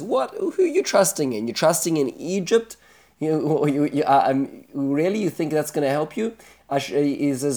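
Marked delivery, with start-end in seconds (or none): 0.0-6.4 mocking taunt. Teacher voices taunting Assyrian king.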